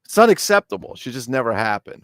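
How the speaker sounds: high, loud, comic indignation; mock-outraged verdict; indignant. Real, not acted. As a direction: protest it as a hammed-up outrage. Comic outrage at Italy's absence.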